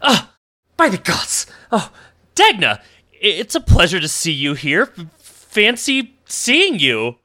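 a hammed-up grand halfling greeting; pompous halfling. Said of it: "and he goes".

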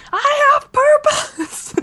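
high, slow grand declaration; hammed-up noble resolve; mock heroic vow. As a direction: announce a quest. Quoting the climber's resolve.

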